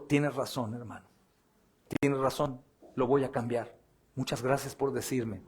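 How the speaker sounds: lightly voiced humble pastor, gentle; humble reply. Pastor humbly thanking the preacher, soft and meek.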